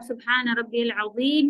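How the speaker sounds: अज़ीम with a clear Arabic z sound; correct Arabic pronunciation. Shown as a demonstration. Teacher drilling the recitation, careful and precise. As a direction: say अज़ीम with the z, not j. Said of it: "अजीम नहीं कहेंगी".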